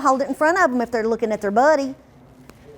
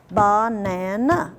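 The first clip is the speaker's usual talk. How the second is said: "Banana" slowly tapped out in beats; syllable-by-syllable banana; 3 semitones lower, much slower than usual. Shown as a demonstration. Teacher showing table tapping, slow and chopped. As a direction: chop "Banana" into ba-na-na. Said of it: "they some tap on the table".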